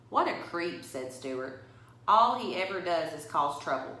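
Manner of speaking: put-on reading a picture book to children; story reading. A narrator's reading. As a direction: tell it to the kids at story time. Reads picture book aloud.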